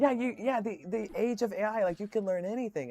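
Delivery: high, loud, over-eager gushing; hammed-up tech-bro enthusiasm; mock AI bro. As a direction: gush like a true believer.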